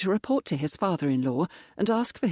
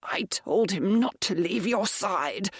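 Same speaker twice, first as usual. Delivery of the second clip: slow, breathy whisper, higher; a weak old man barely getting it out; wheezed whisper; 4 semitones higher than usual. Acted. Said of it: "the Viscount wheezed".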